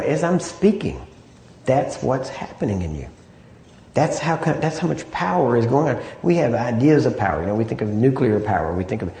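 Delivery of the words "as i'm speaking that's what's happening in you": deliberate stress on "speaking" and "happening"; emphatic. Real, not acted. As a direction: press home "that's what's happening in you" with weight on each word. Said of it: "I know I'm emphasizing this".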